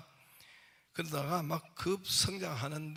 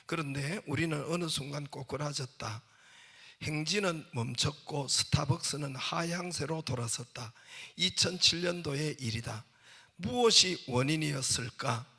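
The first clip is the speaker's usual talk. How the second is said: declaimed reading, building in force; book reading; 4 dB louder than usual. Acted. Preacher quoting the chairman's book, emphatic reading. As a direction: read it out emphatically, gaining volume. Reads book passage aloud.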